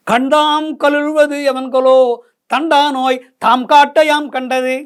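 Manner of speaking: put-on slow, measured recital of the old verse; poem recitation. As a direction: lay out each word of the poem slowly. (மெதுவான செய்யுள் ஓதல்)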